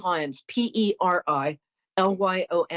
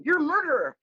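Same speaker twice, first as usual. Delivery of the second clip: retold shout; 8 semitones higher than usual. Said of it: "she was shouting".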